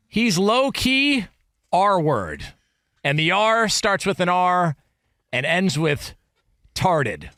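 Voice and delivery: carefully slowed reading. Retold or imitated. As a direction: spell it out slowly. Reading DM slowly.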